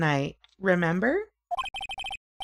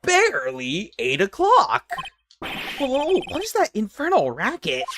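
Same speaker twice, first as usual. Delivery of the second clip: Uncle Bear voice; 4 semitones higher than usual. Acted. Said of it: "I'm Uncle Bear".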